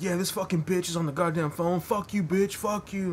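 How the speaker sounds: high, loud mock cursing; imitating a raging drunk, pitched high and loud; mock angry rant. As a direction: rant at the bouncer on the phone. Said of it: "And he's like".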